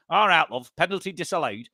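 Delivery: put-on a light Mancunian accent, half-hearted; lightly put-on Mancunian referee voice. Imagined referee announcing over the microphone, light Mancunian accent. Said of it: "in a Mancunian accent".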